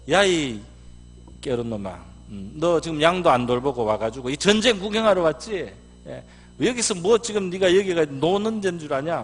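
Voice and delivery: angry big brother. Retold or imitated. Big brother scolding David for coming to watch, loudly. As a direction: scold him like a furious older brother. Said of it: "화를 냈다고 했어요".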